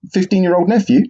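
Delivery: rising disbelief on nephew; incredulous question. Retold or imitated. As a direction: ask it in stunned disbelief. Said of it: "I said".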